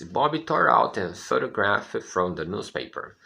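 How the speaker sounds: slow, careful reading of the sentence; slow model reading. Shown as a demonstration. Teacher reading the sentence slowly for students, careful. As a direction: read it slowly for the class. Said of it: "Olha o que a frase diz".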